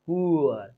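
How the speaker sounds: "पुअर" with both ऊ and अ sounded; pronunciation demo. Shown as a demonstration. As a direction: model पुअर with a falling glide. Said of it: "ऊ भी आ रहा है".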